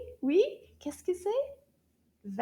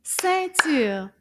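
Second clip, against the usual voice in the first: "Ceinture" in two loud, separate beats; clapped syllables; 6 dB louder than usual. Shown as a demonstration. Teacher repeating the clap on "Ceinture", two firm loud beats. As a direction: punch both syllables of "Ceinture". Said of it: "let's try that again".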